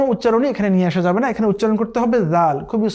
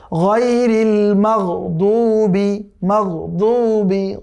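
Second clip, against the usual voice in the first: drawn-out tajweed chanting; slow Quran recitation; much slower than usual. Shown as a demonstration. Teacher reciting the verse for students, slow chant. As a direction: recite each word slowly and carefully. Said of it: "দদ কিন্তু উচ্চারণ দালের মতো নয়".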